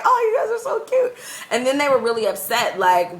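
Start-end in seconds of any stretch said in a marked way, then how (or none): 0.0-1.1 laughing fondness. Retold or imitated. Touched by the kids' praise.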